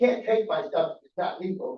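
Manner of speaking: ordinary talk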